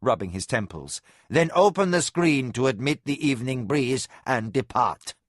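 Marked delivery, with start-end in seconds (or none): 1.3-5.1 commanding. A narrator's reading. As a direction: give orders like a weary lord. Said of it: "he commanded".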